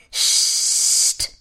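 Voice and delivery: a breathy hush sound; sneaking into the kitchen, warning her sister to hush; shushing. A narrator's reading. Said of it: "macht Prinzessin Felicitas".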